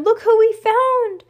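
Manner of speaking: high, loud, triumphant shout; excited cry. A narrator's reading. Judy shows off the found puppy, excited cry. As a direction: call out the great news across a yard. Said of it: "cried Judy as he crossed the yard".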